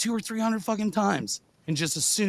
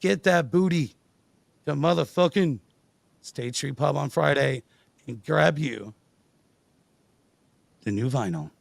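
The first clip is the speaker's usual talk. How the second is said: show promo. Acted. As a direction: plug the Friday show.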